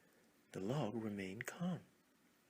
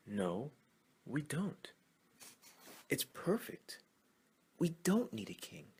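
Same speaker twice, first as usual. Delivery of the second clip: higher, louder frog protest; frog shouting back; 6 semitones higher, 4 dB louder than usual. Acted. A frog shouts back at the crowd, rising protest. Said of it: "another shouted back in the crowd".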